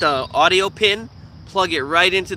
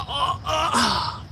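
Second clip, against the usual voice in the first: squeaky laugh; 9 semitones higher, 4 dB quieter than usual. Real, not acted. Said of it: "laugh-cry squeak".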